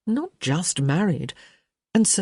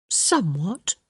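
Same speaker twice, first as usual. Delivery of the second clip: hedging; 3 semitones higher than usual. Acted. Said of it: "Hyacinth hedged".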